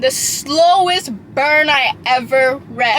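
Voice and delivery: slowly drawn out. Shown as a demonstration. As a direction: stretch every word of The slowest burn I ever read slowly. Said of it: "people said it was slow burn".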